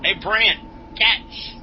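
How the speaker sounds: loud call across the ground; a quick loud shout to a friend. Acted. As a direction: call out as you toss it. Calling while tossing stick.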